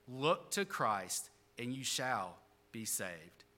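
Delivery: measured, hushed-down closing line of a testimony; solemn appeal. Retold or imitated. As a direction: let each phrase settle, unhurried.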